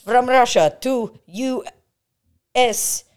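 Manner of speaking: put-on high loud Russian accent slogan. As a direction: belt it as a Russian ad.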